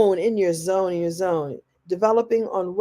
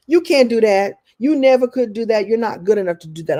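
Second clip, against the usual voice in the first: louder, scornful put-down; mock naysayer; 5 dB louder than usual. Speaker imitates the haters who say you can't, scornful. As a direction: sneer like a hater.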